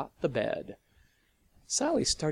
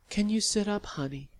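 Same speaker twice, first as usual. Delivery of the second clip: gently; 9 semitones higher, faster than usual. Acted. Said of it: "Sally said gently".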